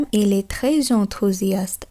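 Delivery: slow "très enthousiaste" with the s said as z, tre-z-enthousiaste; French liaison demo. Shown as a demonstration. Teacher pointing out the z liaison for students, slow careful French. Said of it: "এস এর সঙ্গে অ অ্যালফাবেটটি একত্রে জেড বা জয়ের ন্যায় উচ্চারণ করলাম".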